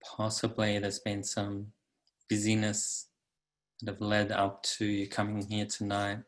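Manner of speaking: calm, unhurried meditation guide; guided meditation. Acted. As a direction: guide listeners into the body, leaving long pauses.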